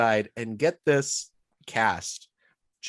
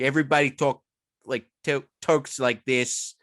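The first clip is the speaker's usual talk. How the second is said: put-on regional American accent; 2 semitones higher than usual. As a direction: imitate a local American accent. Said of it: "I hear that accent".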